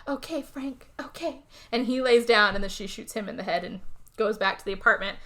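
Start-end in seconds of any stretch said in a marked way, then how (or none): 0.1-1.4 mock sad resignation. Retold woman accepting his last wish.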